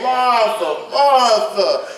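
Jesus losing patience with Martha, mildly; frustrated Jesus. Retold or imitated. Jesus calling Martha's name, exasperated. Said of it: "he's frustrated".

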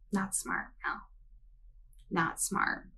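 whispered aside. Real, not acted. Sarcastic aside after mocking quote.

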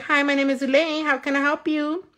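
lightly voiced fast-food greeter; drive-thru greeter. Worker greeting a drive-thru customer, lightly acted scripted greeting. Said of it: "They're like".

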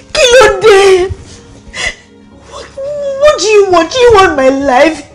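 tearful outburst. Acted. Distraught wife confronts husband.

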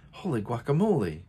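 startled cry of wonder; exclaiming. Acted. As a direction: gasp it out in surprise. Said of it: "exclaimed Skippy John Jones".

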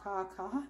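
soft little pretend caws; eagle cawing. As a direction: caw quietly like a bird. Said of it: "the eagle is a majestic".

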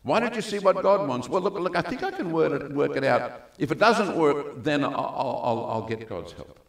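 hesitant excuse-maker. Retold or imitated. Preacher mimicking a reluctant believer, dithering. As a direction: mimic a person stalling with excuses. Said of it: "People will say".

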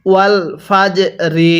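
"ফাজ" ending in a small echoing push on জ; bounced জিম. Shown as a demonstration. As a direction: release the j of "ফাজ" with a bounce, then "রি". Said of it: "একটু ধাক্কা দিয়েই পড়তে হয়". ("ফাজ"-এর শেষে জ-তে হালকা ধাক্কা)

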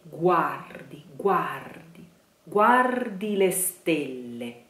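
guardi with the weight on the first A; stress on guardi A. Shown as a demonstration. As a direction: hit the A of guardi. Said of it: "stress on the A".

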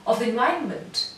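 "of the environment" said quickly; fast. Shown as a demonstration. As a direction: rush through the phrase. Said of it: "again fast".

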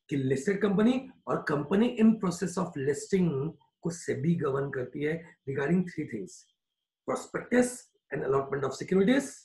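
each word spaced out slowly for note-taking; slow dictation. Shown as a demonstration. Teacher to class, dictating a definition slowly.

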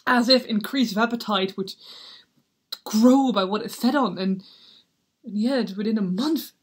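pained soliloquy, halting between surges; tormented Hamlet. Acted. Hamlet remembering how his mother loved his father, tormented. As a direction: wrestle with the memory, then sigh it away.

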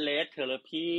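Red Therapy spelled out slowly, word by word; slow careful English. Shown as a demonstration. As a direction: say Red Therapy slowly like teaching a kid to read. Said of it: "เขาอ่านว่า". (อ่าน Red Therapy ช้าๆ ชัดๆ แบบสอนอ่าน)

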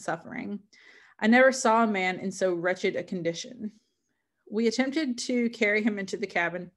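measured, literary read-aloud; story narration. Acted. Reader sharing Frankenstein with listeners, story narration. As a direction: read it as an explorer's letter, evenly phrased.

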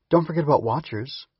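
sing-song tone. Acted. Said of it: "Hum interjected in a sing-song tone".

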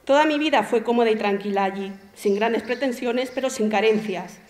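even, composed literary narration; story reading. Acted. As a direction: read your own story aloud to an audience. Reads own short story aloud.

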